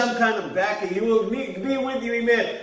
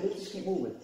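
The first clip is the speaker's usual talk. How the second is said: calm quiet instruction; 2 semitones lower, 11 dB quieter than usual. Shown as a demonstration. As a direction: settle everyone with a quiet word. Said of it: "I just said".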